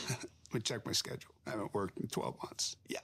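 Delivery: soft, whispered joke to himself; hammed-up hushed aside; hushed mock aside. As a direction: drop to a sly whisper as if covering the phone. Mock aside while checking schedule.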